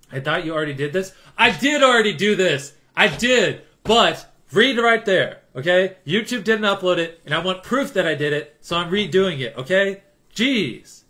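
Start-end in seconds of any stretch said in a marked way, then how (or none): 1.4-11.0 higher, louder exasperated telling-off. Real, not acted. Streamer exasperated at chat repeating the question, higher and louder. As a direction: scold chat for asking again.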